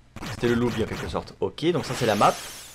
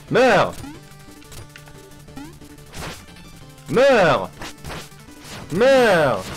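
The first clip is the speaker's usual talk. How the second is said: unhinged villain; 8 semitones higher, 4 dB louder, much slower than usual. Acted. Voicing boss yelling die.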